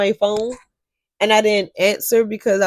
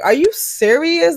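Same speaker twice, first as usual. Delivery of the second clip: mother's surprise; 8 semitones higher, 4 dB louder, slower than usual. Retold or imitated. Mother's shocked question.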